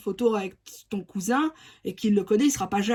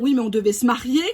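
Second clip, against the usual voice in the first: imitating jealous partner. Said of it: "cette personne va même te dire".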